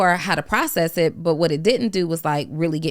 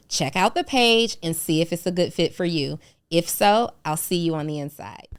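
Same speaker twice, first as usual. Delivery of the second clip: ad read; 3 semitones higher than usual. Acted. Host promoting his paid community to listeners, upbeat ad read. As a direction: pitch the community like a host ad spot.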